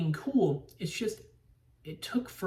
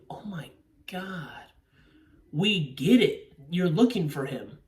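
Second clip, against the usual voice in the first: mock exasperation; 3 dB louder than usual. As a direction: groan it out like an impatient viewer. Acts out impatience in the theater.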